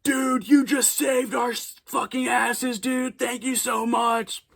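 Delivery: imitating an overjoyed director; grateful excited director. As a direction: gush like he saved the day. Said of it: "He's, like, shaking me".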